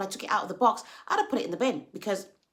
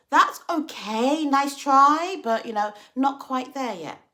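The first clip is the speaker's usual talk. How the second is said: drawn-out, raised-pitch kindly letdown; mock encouragement; 3 semitones higher, 4 dB louder, slower than usual. Imagined expert judging the scouse parting, mock encouraging. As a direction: let them down gently, stretching the praise.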